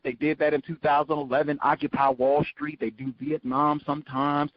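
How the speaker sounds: ordinary talk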